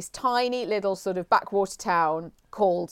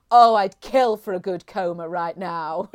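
Moira Rose impression; 3 semitones lower, 4 dB louder, slower than usual. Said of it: "amazing voice and accent".

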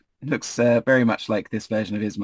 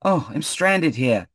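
high, excited calling; eager high cry for a lift, slowing at the end; enthusiastic hailing; 8 semitones higher than usual. Acted. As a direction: wave down a friend with your voice. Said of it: "quite enthusiastically".

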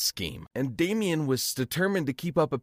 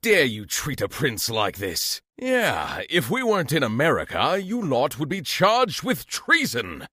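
haughty friend. Acted. Friend defending the prince, lightly voiced indignant scold.

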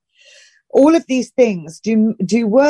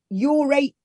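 put-on northern accent; 4 semitones higher than usual. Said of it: "I didn't want to talk like that".

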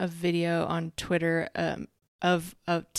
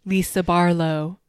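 drawn-out, slightly louder reprimand; teacher calling out; 6 dB louder, slower than usual. Retold or imitated. Whitney interrupting a back-and-forth, calling out like a teacher. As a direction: call the name out like a scolding teacher. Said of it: "kids in class that get called up by the teacher".

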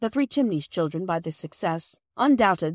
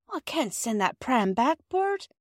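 firm wife, pitched higher; 7 semitones higher than usual. A narrator's reading. Wife refusing to return the pram, firm. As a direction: put your foot down, firmly. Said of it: "said Missus Perks firmly".

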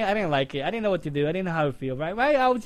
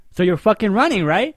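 loud, higher accusing shout; angry yell; 6 semitones higher, 12 dB louder than usual. Retold or imitated. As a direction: bark the accusation down the phone. Caller on phone catches her.

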